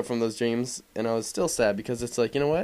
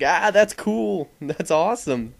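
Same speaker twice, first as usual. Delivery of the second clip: laughing delight; 7 semitones higher, 4 dB louder, slower than usual. Retold or imitated. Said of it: "I was like".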